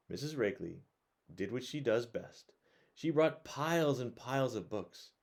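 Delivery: put-on bright, lively read-aloud voice for kids; reading a picture book to children at bedtime; storybook narration.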